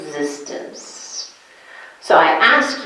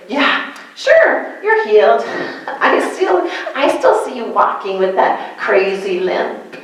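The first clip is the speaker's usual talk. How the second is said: mocking doubter.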